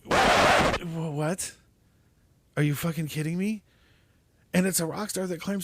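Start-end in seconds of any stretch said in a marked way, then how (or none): 0.1-3.6 incredulous disbelief. Retold or imitated. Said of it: "in your head, you just go".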